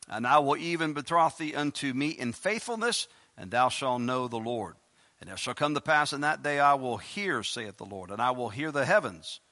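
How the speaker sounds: scripture reading. Acted. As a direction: read the verses out like a preacher. Reads scripture aloud.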